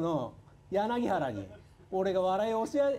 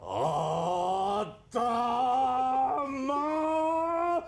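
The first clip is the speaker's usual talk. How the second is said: Adamo-chan impression; 4 semitones higher, much slower than usual. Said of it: "アダモちゃんのなりきり".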